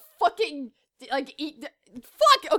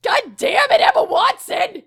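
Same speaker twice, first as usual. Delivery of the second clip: mock-furious yell, rising higher; exasperated shouting; 4 semitones higher, 6 dB louder than usual. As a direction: shout a comic order at someone absent. Yells at absent actress.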